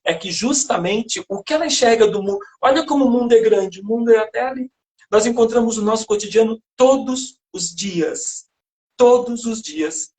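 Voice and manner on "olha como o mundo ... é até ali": higher, lightly mocked naive voice; lightly acted naive marvelling; narrow-minded character. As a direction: quote a small-world character with gentle irony. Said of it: "essa personagem que é extremamente limitada".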